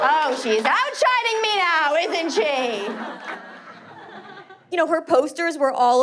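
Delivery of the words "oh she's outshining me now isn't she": mock hurt. Mock reaction to audience cheering sister.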